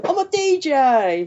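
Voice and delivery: put-on slow London accent; mock Cockney accent; Idris Elba impression. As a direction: drawl it like a London DJ. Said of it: "He's like that".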